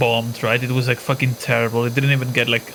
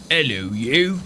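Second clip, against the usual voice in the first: British YouTuber greeting; cheery British presenter voice; Guru Larry impression. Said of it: "I can only do the".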